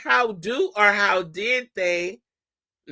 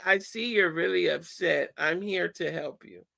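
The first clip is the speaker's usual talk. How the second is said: softer, gentle, reassuring; calm reassurance; 2 semitones lower, 6 dB quieter than usual. Shown as a demonstration. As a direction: soothe the upset child quietly. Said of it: "talk in a calm voice".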